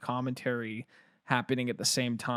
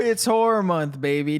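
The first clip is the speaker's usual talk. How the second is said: excited shout; 4 semitones higher, 6 dB louder than usual. Real, not acted. Hyped opening to horror month.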